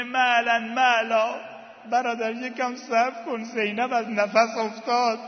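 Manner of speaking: mock cry for him to wait, not a full shout; imitated calling out. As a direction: call after someone leaving, pleading.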